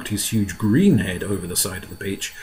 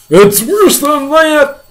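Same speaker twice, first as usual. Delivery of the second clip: high, drawn-out cry of alarm; 10 dB louder, much slower than usual. Acted. Police chief topping fire chief's fear, high cry. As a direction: cry it out long and loud. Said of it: "cried the chief of police".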